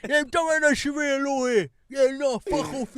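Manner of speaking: loud, high, drawn-out rant; ранting far-right man. Acted. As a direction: put on a ranting far-right voice. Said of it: "The far right".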